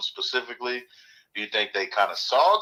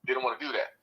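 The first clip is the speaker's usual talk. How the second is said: underwater; 2 semitones higher than usual. Real, not acted. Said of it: "You sound like you're up underwater".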